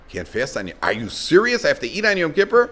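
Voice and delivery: upset disbelief, climbing in pitch. Acted. Man told he can't fast on Yom Kippur, upset. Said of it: "Gets all upset".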